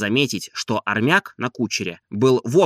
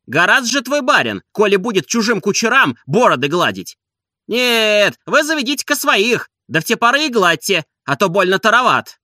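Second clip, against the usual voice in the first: high, loud, jeering coachman; cheeky coachman; 9 semitones higher, 4 dB louder than usual. A narrator's reading. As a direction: needle the old man, pitched high and loud. Coachman voiced in dialogue.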